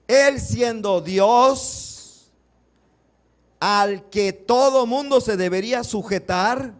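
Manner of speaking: loud, slow preaching that builds to a peak; stretched words at full preaching force; fervent preaching. Acted. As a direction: hammer the point home to the congregation.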